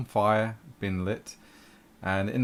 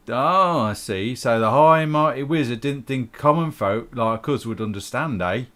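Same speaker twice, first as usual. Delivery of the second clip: mocking, higher and louder on high and mighty; sarcastic barkeep; 4 semitones higher, 5 dB louder than usual. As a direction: sneer at the wizard's pride. NPC mocks the wizard.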